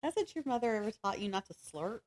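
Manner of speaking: usual speaking voice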